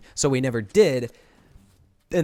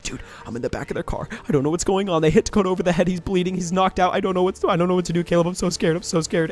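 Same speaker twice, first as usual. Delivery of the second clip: faked scared call; 5 semitones higher than usual. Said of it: "and I'm whispering".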